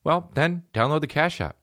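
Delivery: upbeat sponsor read. Acted. Host reading ad to listeners, upbeat. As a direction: sell the app like a host ad.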